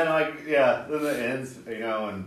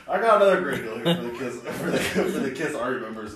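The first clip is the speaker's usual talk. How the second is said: salesman pitch; faster than usual. Retold or imitated. Gene as pushy salesman.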